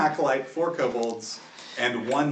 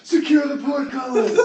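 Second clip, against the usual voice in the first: echoed shout; 10 semitones higher than usual. Acted. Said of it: "I just basically echo".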